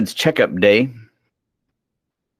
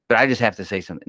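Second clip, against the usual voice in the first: mocking chatty kid; much faster than usual. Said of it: "Ever heard somebody".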